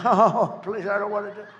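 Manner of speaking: chuckling through the words; a real laugh breaking in; laughing aside. Real, not acted. Candidate laughing at his own joke, laughing.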